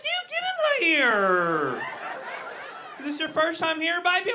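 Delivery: high, stretched-out Southern welcome; over-the-top Southern sweetheart. Acted. Hostess ushering in a first-time customer, gushing Southern accent. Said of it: "over-the-top Southern hospitality, just sweethearts".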